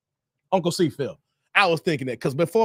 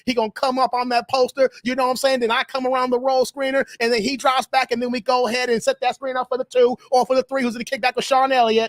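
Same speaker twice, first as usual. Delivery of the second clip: lightly voiced Alabama coach; Avery Johnson impression. Coach lays out a screen play, lightly impersonated. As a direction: run through plays as an impersonated coach. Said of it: "impersonate Avery Johnson from Alabama".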